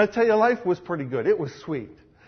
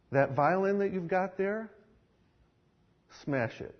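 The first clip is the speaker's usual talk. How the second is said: quiet command; 7 dB quieter than usual. Acted. Jesus quietly tells Zoltan to smash his violin. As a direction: say it gently but leave no room.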